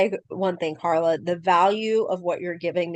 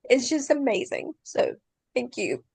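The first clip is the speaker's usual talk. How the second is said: choked up; 5 semitones higher than usual. Real, not acted. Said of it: "Sorry, I'm getting a little choked up".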